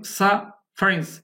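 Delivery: সাফারিংস slowed, split as "sa... farings"; syllables shown apart. Shown as a demonstration. Teacher asking learners to watch, syllables shown apart. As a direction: say সাফারিংস slowly, pausing after the first syllable. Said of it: "এম বলছি কিন্তু".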